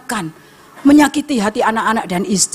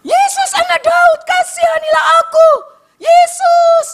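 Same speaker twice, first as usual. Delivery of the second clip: very high, drawn-out desperate shout; loud pleading scream across a crowd; Bartimeus shouting; 5 dB louder, slower than usual. Acted. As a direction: cry out for mercy at full force. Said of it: "Bartimeus berteriak. Dia semakin keras".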